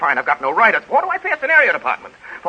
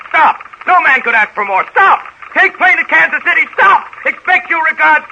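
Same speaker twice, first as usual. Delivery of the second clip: rising anger; 4 semitones higher than usual. Acted. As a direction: slam the word stop harder every time. Angry boss dictating telegram.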